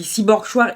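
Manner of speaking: CHOIR read the French way, "shwar"; mispronounced CHOIR. Retold or imitated. Vlogger retelling her slip to her Welsh partner, CHOIR as "shwar". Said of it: "le mot que tu as utilisé comme choir".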